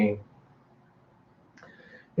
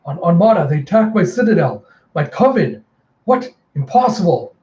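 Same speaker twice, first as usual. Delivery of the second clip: higher, louder, shocked exclaiming; outraged disbelief; 4 semitones higher, 4 dB louder than usual. Acted. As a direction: react in acted alarm to an attack. Mother learns citadel is attacked.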